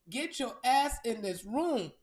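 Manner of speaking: shouted summons, slow and hard; yelling at clients to get in the room; loud call. Real, not acted.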